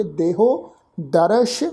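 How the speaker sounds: slow ਦੇਹੋ ਦਰਸ਼, closing on a sh; sh ending. Shown as a demonstration. Teacher demonstrating dotted letter, clear sh at end of ਦਰਸ਼. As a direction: draw out ਦਰਸ਼ and end it with sh, not s. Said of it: "ਸੱਸੇ ਅੱਖਰ ਦੇ ਪੈਰ 'ਚ ਬਿੰਦੀ".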